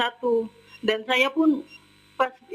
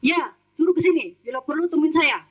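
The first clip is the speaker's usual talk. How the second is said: higher-pitched imitated challenge; Erin's retort; 4 semitones higher than usual. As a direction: mimic an employer's defiant answer. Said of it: "Bu Erin jawab gini sambil duduk". (menirukan tantangan majikan, nada tinggi)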